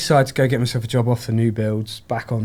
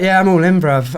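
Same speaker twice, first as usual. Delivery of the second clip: excited yes; 5 semitones higher, 5 dB louder than usual. Retold or imitated. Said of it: "I was like".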